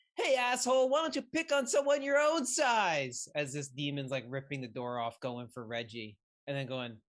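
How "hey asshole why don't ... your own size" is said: very high taunting yell, size drawn out. Voicing a character confronting a demon that is going for another character: yelling in character. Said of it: "all you just hear Alex yell".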